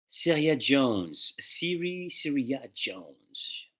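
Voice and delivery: slow name reading with a French accent; French-accented pronunciation, unhurried. Real, not acted. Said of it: "I made the French accent on there".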